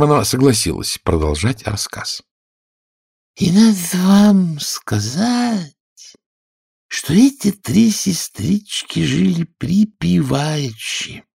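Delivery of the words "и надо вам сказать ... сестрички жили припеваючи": high, squeaky storyteller mouse; a tiny creature spinning a tale; sleepy Dormouse voice. Acted. Dormouse telling Alice her tale, squeaky and high.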